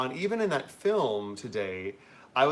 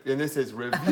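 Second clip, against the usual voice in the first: campy drag queen. Retold or imitated. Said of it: "Do you know how she does that?".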